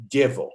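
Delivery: "Dievo" short and joined as DYEH-vo; third stress option. Shown as a demonstration. Conductor comparing stresses for a choir, "Dievo" in two short syllables. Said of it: "Where do we want the word stress".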